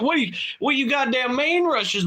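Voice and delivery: put-on panicked kid. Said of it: "I'm like".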